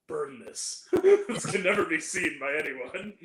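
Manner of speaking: a hint of a hushed Godfather boss; lightly voiced mob boss order. Friend retelling Al Pacino's Godfather-style line, light mock mobster. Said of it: "like he's in The Godfather".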